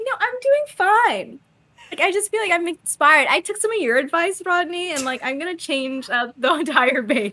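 high, bubbly put-on cheer; giddy mock. Elizabeth in Rodney's body, high giddy cheer. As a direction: sound inspired and overexcited. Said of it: "Rodney's like".

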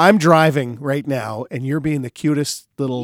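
mock-exasperated dad. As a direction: scold the kid but fondly. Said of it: "I'm like".

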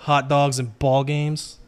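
put-on slow Italian-accented delivery. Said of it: "Your Italian accent is not bad".

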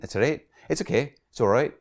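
playful attempt at a Scottish accent; mock Scottish accent. Priest joking to viewers about his accent, light Scottish accent. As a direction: put on a light Scottish lilt. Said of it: "comment on my Scottish accent".

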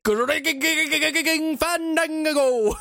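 high, slow, drawn-out Jack Black; Jack Black impression. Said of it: "impersonating Jack Black".

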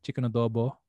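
chicken adobo in a natural Filipino accent. Shown as a demonstration. Saying the dish name the Filipino way, natural Filipino accent. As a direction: say it with your own Filipino accent. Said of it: "in my natural accent".

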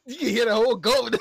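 laughing loudly while speaking. Real, not acted. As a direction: burst out laughing mid-line. Laughing at friend's comment.

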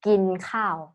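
"gin khao" said carefully in Thai tones; Thai pronunciation demo. Shown as a demonstration. Host answers co-host with the Thai phrase, "gin khao" as a pronunciation demo. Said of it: "what you say in Thai?".

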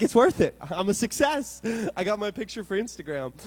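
high, loud burst of retold elation; joyful triumph. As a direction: crow about the win, pitch lifted. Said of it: "all the joy came back".

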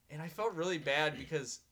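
breaking into laughter mid-sentence; laughing. Real, not acted. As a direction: laugh through the words. Laughing while telling.

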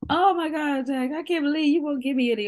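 imitating a mock-hurt plea, pitched high; a light pretend whimper over food he won't share; grandma's fake cry. Grandma fake-crying at her grandson for food, mock-hurt and high. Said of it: "she would always do this fake cry".

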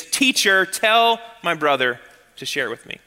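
a pushy, bossy order to the teacher; a man ordering Jesus to settle his quarrel; demanding. Shown as a demonstration. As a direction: demand it, don't ask. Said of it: "It's not".

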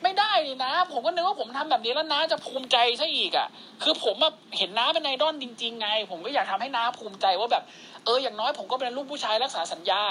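lightly acted pleading nephew; a hint of a hurt, earnest junior; earnest young admirer. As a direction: plead your good intentions to an uncle. Acted nephew pleading with his idol.

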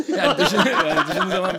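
talking through laughter; can't stop laughing. Real, not acted. Laughs about the joke.

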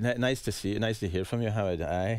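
amateur attempt at a Scottish accent; bad Scottish accent. Shown as a demonstration. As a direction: put on a lightly Scottish phone voice. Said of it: "a pretty bad Scottish accent".

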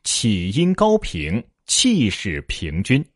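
slow, measured four-character phrases; slow recital. Shown as a demonstration. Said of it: "所以叫".

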